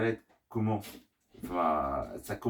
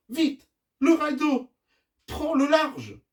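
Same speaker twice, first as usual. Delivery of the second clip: high, loud alarm call; worried urgency; 7 dB louder, slower than usual. Acted. Rocky sees the raft drifting off, worried shout. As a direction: warn them urgently. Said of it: "s'inquiète Rocky".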